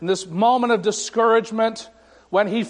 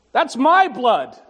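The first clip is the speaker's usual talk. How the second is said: solemn Jesus; 6 semitones higher, 4 dB louder, slower than usual. Retold or imitated. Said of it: "Jesus says to me".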